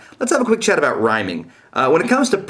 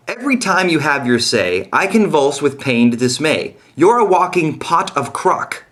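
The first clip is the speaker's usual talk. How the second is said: mock recital; 5 semitones higher than usual. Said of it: "example of using an odd word".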